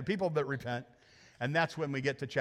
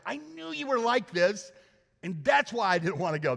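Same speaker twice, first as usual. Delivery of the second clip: sulking Jonah. Acted. Jonah's angry prayer read.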